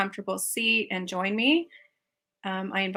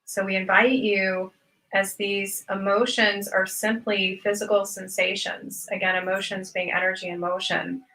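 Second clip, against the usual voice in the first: measured, unhurried meditation teacher delivery; guided meditation talk with spaced-out phrases. Real, not acted. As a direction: lead listeners through it with long pauses between phrases.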